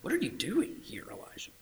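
soft whisper, fading away; whispered take. Shown as a demonstration. God asking Elijah in a whisper. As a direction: breathe it gently. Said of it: "How did the Lord say this?".

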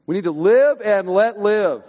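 mock the live-and-let-live attitude; mock tolerant. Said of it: "Do you think".

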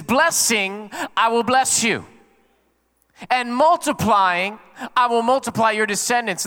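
solemn divine pronouncement, preached out; proclaiming God's promise. Acted. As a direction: stretch the key word out, then declare the promise.

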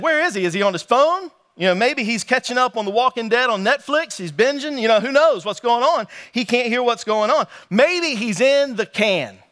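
teasing jabs at a rival's absent god; mocking. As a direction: poke fun with mock wondering. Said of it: "he starts making fun of them".

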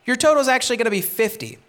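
a sly, smug collector squeezing extra money; greedy tax collector. Retold or imitated. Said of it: "He would say".

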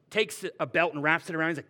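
ordinary delivery

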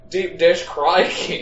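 slow, lightly voiced Australian accent; a joke Aussie twist; mock Australian accent. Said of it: "Sounds like Australian".

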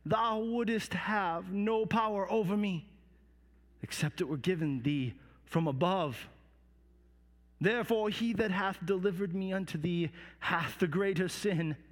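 measured, unhurried composure; settled, steady and deliberate; calm voice. Acted. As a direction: answer evenly after the outburst. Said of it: "said in a calm voice".

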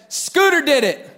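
high, loud mock tattling; blurted accusation. Boy blames his cousin to dad, high and loud. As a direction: imitate a kid loudly blaming the cousin.

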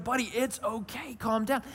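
mock calm from an upset parent; worked-up parent. Dad as upset as his son, strained soothing. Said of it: "we're both in this state".

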